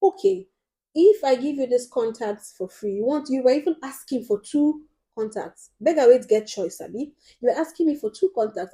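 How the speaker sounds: loud, incredulous challenge; mock scolding. Vlogger retelling how she challenged the beggar, loud mock scolding. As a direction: call her out, half laughing. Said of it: "I now asked her this question".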